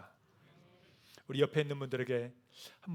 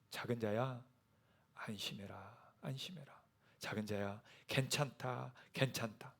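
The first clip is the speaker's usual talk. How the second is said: hushed comfort; 3 semitones lower, 9 dB quieter than usual. Acted. Jesus comforting, near whisper.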